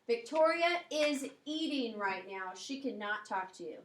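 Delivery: mildly emphatic, slowed announcement that she is busy. Acted. Dad to a boy on the phone, mildly emphatic. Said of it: "He's emphasizing it".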